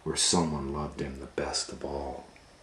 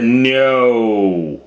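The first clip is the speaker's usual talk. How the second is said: firm refusal; 7 semitones higher, 14 dB louder than usual. Acted. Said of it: "And Max said".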